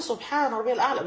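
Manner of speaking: سبحان ربي الأعلى drawn out slowly, every word full; slow tasbih. Shown as a demonstration. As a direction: say it slowly and completely. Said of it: "وأقرأ ببطء وأسبح ببطء". (تسبيح ببطء وبتأنٍ)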